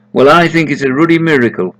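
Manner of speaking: hearty Yorkshire farmer exclaiming; amazed farmer. Acted. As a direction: blurt out the wonder.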